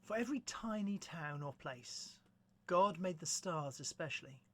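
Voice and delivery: measured, understated verse reading; gentle poem recitation. Acted. Presenter reading To Belloc to listeners, gentle measured recitation. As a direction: recite it evenly, with a pause after each line.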